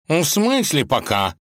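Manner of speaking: high-pitched, affronted question; indignant. A narrator's reading. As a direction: react with outrage to being left. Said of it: "возмутился кот".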